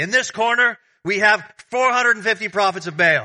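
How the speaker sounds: boxing ring announcer call. Explaining a Bible verse, speaker voices Elijah's challenge, boxing ring announcer voice. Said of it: "like an announcer would say".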